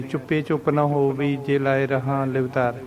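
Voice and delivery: ਚੁੱਪੇ with a closed e, run on without pauses; wrong ਚੁੱਪੇ reading. Shown as a demonstration. Teacher showing the common mistake, ਚੁੱਪੇ ending in plain e. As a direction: close the vowel of ਚੁੱਪੇ and read straight on. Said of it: "ਗਲਤ ਉਚਾਰਨ ਕਰਦੇ ਹਾਂ".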